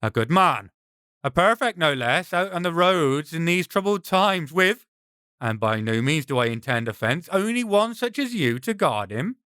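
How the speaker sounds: lightly voiced smooth-talking brigand; oily flattery from a sword-bearing stranger; a hint of a sly highwayman. Brigand addresses travellers.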